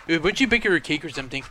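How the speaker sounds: understated impression of a deadpan movie friend; Pedro. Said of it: "Or Pedro".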